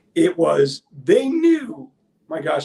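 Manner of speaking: cracking voice. Speaker discussing the Mavericks' trade for Kyrie Irving, voice cracking. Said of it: "as my voice is cracking".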